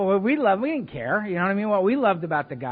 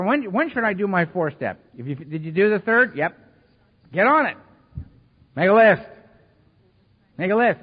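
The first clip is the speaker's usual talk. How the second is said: blunt orders; 5 dB louder than usual. Retold or imitated. Mike's blunt instructions.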